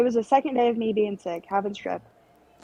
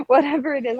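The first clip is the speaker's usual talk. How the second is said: laughing; 5 semitones higher, 4 dB louder, faster than usual. Retold or imitated. Laughing while quoting own fear.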